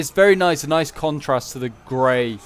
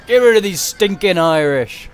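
higher, louder, slow hammed-up warlord voice; mock battle shout; 6 semitones higher, 8 dB louder than usual. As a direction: bark it like a pantomime commander. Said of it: "so you could just be like".

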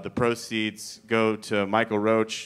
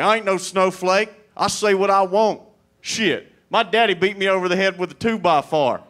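loud, higher hick bluster; redneck guy; 5 semitones higher, 4 dB louder than usual. Retold or imitated. Heckler ranting to comic, loud redneck voice. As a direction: puff up as a proud redneck.

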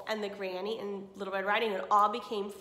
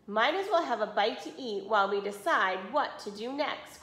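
louder, scolding lecture; grandma scolding the wolf, louder; lecturing grandma; 3 dB louder than usual. Acted. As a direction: scold him like a stern granny. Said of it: "Grandma lecturing all the way".

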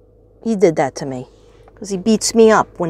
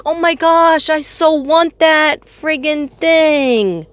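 wanting it badly; 5 semitones higher, slower than usual. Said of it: "I was like".

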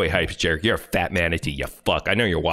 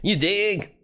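higher mocking parrot of the clip's fake voice; host parroting the YouTuber's fake accent, pitched up; mock impression; 8 semitones higher than usual. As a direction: echo the bad impression higher, sneering. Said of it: "sounds like every white person that tries to sound like a black guy".

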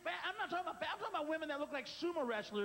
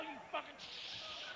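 shrill high shout, go higher; hammed-up yell; 12 semitones higher, 3 dB quieter than usual. Ad voice screaming at the stain eater. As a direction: scream it like a crazed fan.

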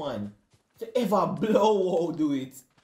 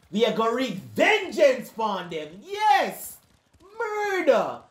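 hype shout; 5 semitones higher, slower than usual. Real, not acted. Hyping revenge in game.

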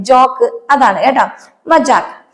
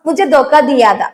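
slow repeat; slower than usual. Shown as a demonstration. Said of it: "മനഃപൂർവ്വം".

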